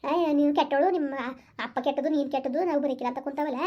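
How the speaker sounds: mother mimics her son to the father, softly; mock sulky child. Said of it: "ಹೆಂಗ್ ಹೇಳ್ಕೊಟ್ಟಾರ ನೋಡಿ ಇಲ್ಲಿ".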